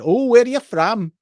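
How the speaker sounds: high, slow mock-polite query; imitating a shop clerk. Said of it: "And she said".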